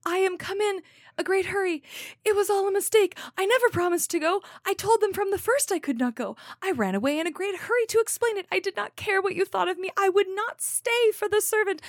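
put-on panicked girl out of breath; breathless panic. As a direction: blurt it all out in a rush. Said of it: "the part that it says is".

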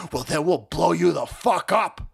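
imitated activist threat, not yet shouted; mock threat. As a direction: put on a threatening voice, holding back.

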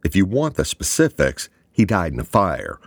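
furious shout, loud and high. A narrator's reading. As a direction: blow up and shout at him. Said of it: "Draper uncharacteristically shouted".

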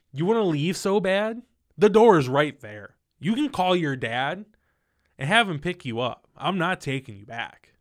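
loud, firm re-enacted dismissal; fed up. Boyfriend telling girlfriend to go, loud and fed up. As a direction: show her the door, had enough. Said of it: "I started to get fed up with it".

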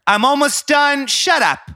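high, loud, harried mother; hammed-up high mom voice, drawn out; impression of his mom. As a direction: yell back at your son as a cross mom. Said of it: "You be your mom".

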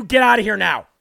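angry order to leave. Real, not acted. Host ordering whining viewers off his stream, loud command. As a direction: throw them out with a bark.

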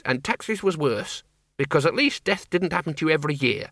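tart countrywoman with a grudge; feisty old farm woman. Acted. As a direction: rattle it off, indignant. Miss Flitworth ranting as character.

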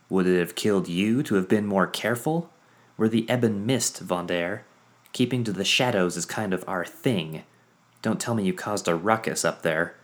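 put-on high, loud, lively mechanic girl; bubbly Quinn. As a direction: chatter brightly, teasing. Quinn's voice held.

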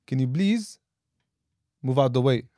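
mildly imitated Arab accent, "please" as "bliz"; lightly put-on Arab accent, B for P in "please". Mimicking someone at the mosque, light Arab accent. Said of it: "they're out there going".

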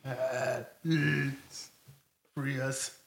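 faint, far-off ghostly voice; ghostly plea. Acted. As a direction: moan it like trapped spirits. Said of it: "you can see faces".

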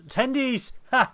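high excited squeal of tendies. Shown as a demonstration. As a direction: burst out tendies up high and loud. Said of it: "You couldn't have your tendies while".

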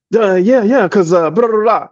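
imitating a rambling coworker; mock coworker babbling nonsense; mock fast-talker. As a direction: rattle off empty filler. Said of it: "just the idea of talking fast".

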